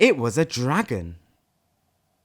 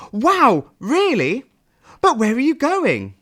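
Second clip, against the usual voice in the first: high, louder, thrilled little voice; ecstatic snail; 11 semitones higher, 5 dB louder than usual. Acted. Snail asks Sad where he is going, thrilled and high. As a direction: burst with delight like a tiny creature. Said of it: "The snail was ecstatic".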